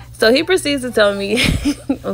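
holding back laughter; fighting off a giggle; trying not to laugh. Real, not acted. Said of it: "I'm trying not to laugh right now".

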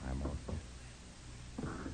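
slow, low unvoiced whisper; calm hunter's whisper. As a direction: hush it, the killer is near. Hiding from intruder on stairs.

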